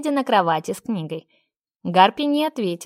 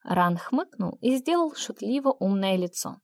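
usual speaking voice

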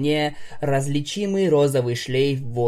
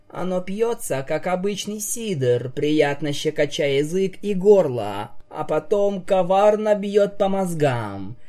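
spooky storytelling; 5 semitones higher than usual. Acted. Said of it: "уже обычным голосом продолжила".

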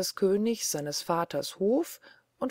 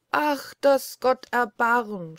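higher, louder, slow wail of a shocked mother; cry of dismay; 6 semitones higher, 4 dB louder, slower than usual. A narrator's reading. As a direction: cry out in horror. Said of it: "schrie die Mutter". (höher, lauter, langsamer Entsetzensschrei)

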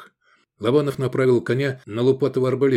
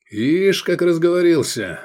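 satisfied; 6 semitones higher, 3 dB louder than usual. Acted. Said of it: "удовлетворённо заметил Искандер".

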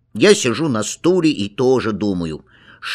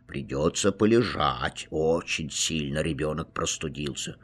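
lower, softer calm doctor; a quiet, low bedside verdict; doctor's voice; 7 semitones lower, 9 dB quieter than usual. A narrator's reading. Doctor tells the parents the child must stay in bed, low and soft.

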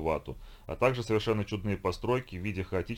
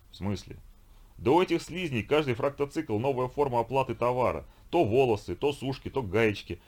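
слегка сыгранный ворчливый викинг; ворчи, как раздражённый варвар; грубоватый викинг; 4 semitones higher than usual. Acted. Викинг жалуется черепу. (лёгкий голос ворчливого викинга)

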